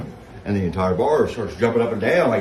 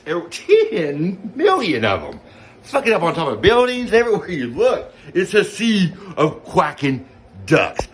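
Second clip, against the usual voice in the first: laughing; 8 semitones higher, 5 dB louder than usual. Real, not acted. Laughing through duck chaos.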